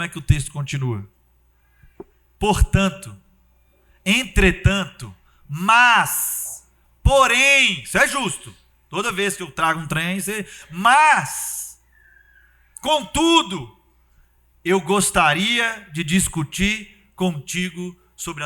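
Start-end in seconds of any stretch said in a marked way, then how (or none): 2.4-7.8 hesitant hedging. Retold or imitated. Prophet hedging with God. 10.7-18.4 mock formal objection. Prophet politely objecting to God.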